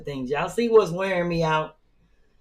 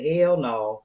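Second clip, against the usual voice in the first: retold hell no; 3 semitones lower than usual. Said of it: "I said".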